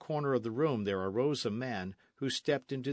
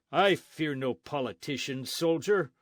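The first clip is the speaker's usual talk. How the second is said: higher, louder defiance; defiant friar; 5 semitones higher, 6 dB louder than usual. Acted. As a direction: stand your ground. Friar defies the soldier.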